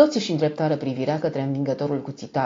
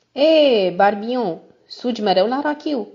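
calling out; 6 semitones higher, 5 dB louder, slower than usual. A narrator's reading. Character hails another in the tavern.

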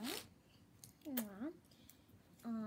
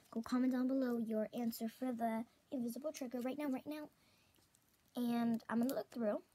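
excited; 5 dB louder than usual. Real, not acted. Excited reveal, loud.

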